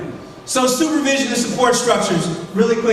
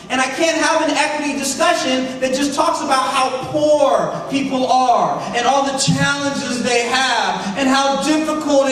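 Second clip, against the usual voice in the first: insistent, raised, driving oratory; impassioned near-yelling. Real, not acted. Speaker arguing for alliance over paternalism, impassioned raised voice. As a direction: press the case with real passion, stretching key words. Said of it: "I'm sorry, I'm yelling".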